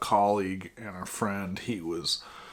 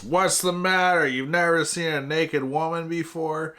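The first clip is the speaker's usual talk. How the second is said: mock yell; 6 semitones higher than usual. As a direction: shout it at the bartender, half acted. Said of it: "and she yells".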